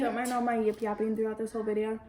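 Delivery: talking with mouth full; chewing while talking. Real, not acted. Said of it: "it's kinda hard to eat and talk".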